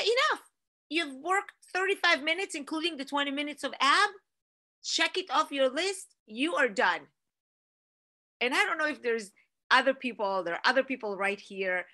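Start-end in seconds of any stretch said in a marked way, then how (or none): 0.0-7.1 urging herself to quit. Retold or imitated. Inner voice telling herself mid-workout to stop, pitched up and urgent. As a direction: cheer yourself into stopping, pitched up.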